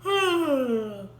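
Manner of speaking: long drowsy exhale; big sleepy sigh. A narrator's reading. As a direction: sigh like a bear waking. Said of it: "with a yawn".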